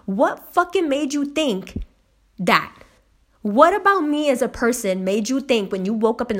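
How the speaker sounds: mildly indignant challenge; retold indignation. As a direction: demand an answer, offended. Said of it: "that shit really makes me angry".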